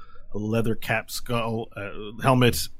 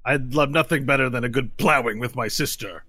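lightly voiced lizard warrior, formal with laughter breaking in; higher formal voice settling into tedium; Brahmi; 5 semitones higher, 4 dB louder than usual. Lizard warrior grumbles about honorable but tedious guests, lightly in character.

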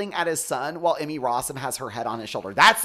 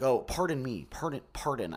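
straight guy voice; 4 dB quieter than usual. Shown as a demonstration. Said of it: "I'll be like".

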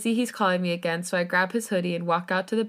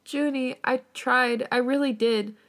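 tearful; 6 semitones higher, slower than usual. Acted. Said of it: "stop the tears, but I can't".

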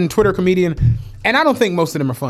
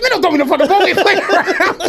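mock annoyed LeBron; 9 semitones higher, faster than usual. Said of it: "He said".

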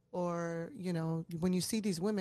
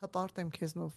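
grandfather's proud toast; 3 semitones lower, much faster than usual. Retold or imitated. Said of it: "ասեց".

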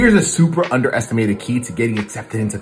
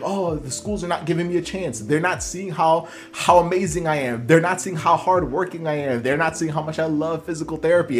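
higher-pitched frustrated student complaint; mock frustration, pitched up a little; 4 semitones higher than usual. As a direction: complain like an overlooked applicant, mildly frustrated. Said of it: "now we're frustrated because we're like".

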